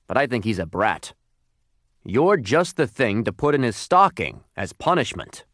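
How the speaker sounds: lightly voiced fed-up store Santa; a hint of gruff stepfather; drugstore Santa, grumbling. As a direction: complain about the stepson as a hired Santa.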